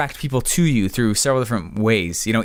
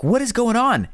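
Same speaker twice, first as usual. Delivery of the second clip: retold disbelief; 9 semitones higher than usual. To the recruit still missing the paper, baffled and high. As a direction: pitch jumps up, baffled.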